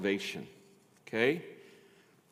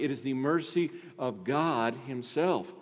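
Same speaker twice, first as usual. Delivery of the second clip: ordinary talk, nothing marked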